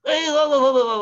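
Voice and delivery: a panicked plea after people running from him; alarmed protest. Acted.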